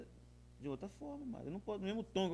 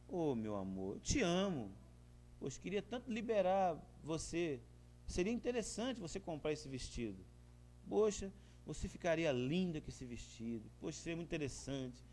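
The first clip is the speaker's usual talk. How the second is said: sweet to wife; 4 dB quieter than usual. Retold or imitated. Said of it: "Mudar a voz. Fazer um carinho".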